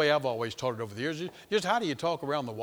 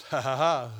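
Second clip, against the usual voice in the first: mocking devil; 2 semitones lower than usual. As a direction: gloat like the devil moving in. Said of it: "And the devil goes".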